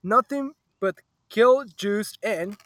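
talking while chewing gum. Real, not acted. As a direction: speak around a wad of gum. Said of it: "Stop chewing gum".

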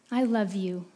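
whispered bedtime words; father whispering to his daughter. Acted.

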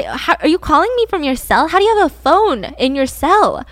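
retold bewilderment, pressing for an answer; confused disbelief. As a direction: imitate a baffled friend on the phone. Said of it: "And James is confused".

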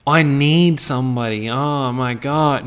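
slow, drawn-out needy whine; lightly voiced clingy lover; half-hearted mimic of a desperate single; mock desperate. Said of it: "Stop being so".

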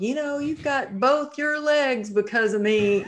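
high, loud mock boast; teasing husband. Husband teasing his wife, high loud mock boast. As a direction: brag playfully as the husband. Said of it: "he still kids around".

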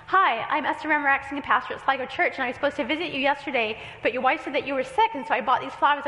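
rushed, nervous fast delivery; nervous fast talk. Retold or imitated. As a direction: blurt it out nervously. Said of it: "I got so nervous, I spoke very quickly".

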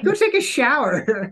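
high, loud, slow command; mock stern order. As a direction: act out sending a junior away in disgust. Captain ordering off the corrupted kid.

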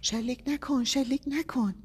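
high, urgent shout. A narrator's reading. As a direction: yell to stop the shot. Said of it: "صدای فریاد گابریل".

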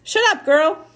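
loud, high rasping retort; rasping call. A narrator's reading. Mars Bar calls to Amanda from the fence, loud rasping retort. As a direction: rasp it out sharply from a distance. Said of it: "A voice came rasping from the fence".

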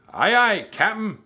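high, loud obedient call; eager pirate crew. A narrator's reading. Pirate crew answers captain's order.

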